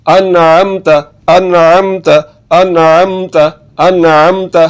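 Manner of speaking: अनअमता with a squeezed mid-throat ain, falling end; throaty ain. Shown as a demonstration. Teacher drilling the reading, throaty ain. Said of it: "ऐन की आवाज़ निकालनी है".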